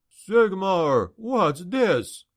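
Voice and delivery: alarmed cry. A narrator's reading. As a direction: cry out at a shocking discovery. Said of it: "cried a voice".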